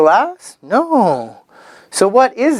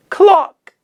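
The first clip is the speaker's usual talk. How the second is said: put-on high child reply; 12 semitones higher, 3 dB louder than usual. High learner answer.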